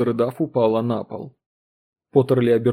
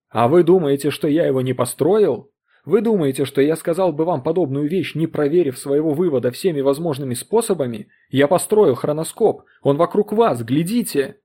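heated, louder insistence; angry; 2 semitones higher, 4 dB louder than usual. Acted. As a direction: push back hard at the doubter. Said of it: "злобно схватил". (злобно и напористо)

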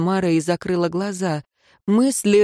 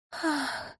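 breathy high moan; a sharp high gasp of pleasure; high soft moan; 9 semitones higher, 13 dB quieter than usual. A narrator's reading. Woman moaning with her lover, soft high gasp. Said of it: "простонала она".

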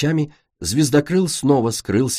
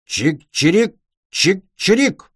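mock chirp; 8 semitones higher, slower than usual. Clay imitates little scavenger cries.

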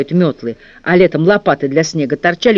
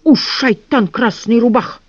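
wild unhinged ranting; 6 semitones higher, slower than usual. A narrator's reading. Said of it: "орал сумасшедший дворник".

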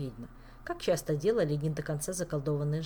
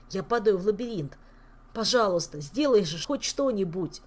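terrified pleading. Acted. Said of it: "в дрожащую развалину".

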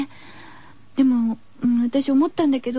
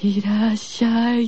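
slow, low creepy welcome; a mild spooky drawl; 怖い声でゆっくり; scary voice; 3 semitones lower, slower than usual. Retold or imitated. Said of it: "きっと怖い声で".

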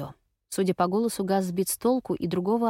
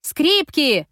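loud, high warning cry; shout; 8 semitones higher, 7 dB louder than usual. A narrator's reading. Strangers in the next car shout a warning, loud and high. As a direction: yell it across the lanes.

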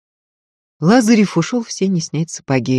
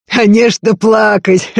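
laughing out loud, wincing; laughing through pain; 6 semitones higher, 6 dB louder than usual. Acted. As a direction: laugh while it hurts. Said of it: "уже в голос расхохотался, морщась от боли".

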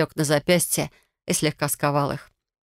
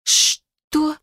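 high, sharp disbelieving yelp; outraged what; 11 semitones higher, 3 dB louder than usual. Acted. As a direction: spit out in shock. Heroine outraged.

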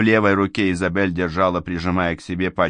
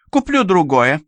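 higher, louder carefree reply; airy governess; 10 semitones higher, 5 dB louder than usual. Acted. Governess shrugs off the ruined dress, higher carefree voice. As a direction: toss it off lightly.

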